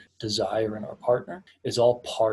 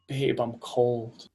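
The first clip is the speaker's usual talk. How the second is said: soft statement; much slower than usual. Retold or imitated. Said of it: "she goes".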